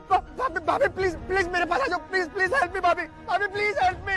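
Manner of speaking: frantic, tearful pleading; panicked pleading. Acted. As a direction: beg for help in panic. Panicked call after accident.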